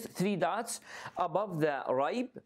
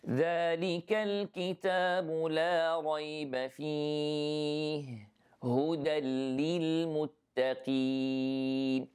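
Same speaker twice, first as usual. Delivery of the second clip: Quran recitation. Shown as a demonstration. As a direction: recite the verse with measured tajweed. Repeats the ayah recited.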